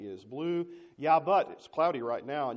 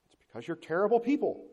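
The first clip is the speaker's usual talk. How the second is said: 1 blunt divine rebuke; 5 semitones higher, 6 dB louder than usual. Acted. God's blunt verdict voiced.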